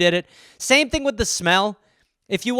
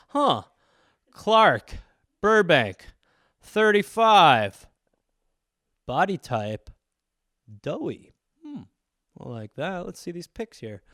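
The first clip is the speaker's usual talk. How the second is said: hungry cannibal; slower than usual. Pretend. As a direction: read the profile like a menu. Cannibal browsing a dating profile.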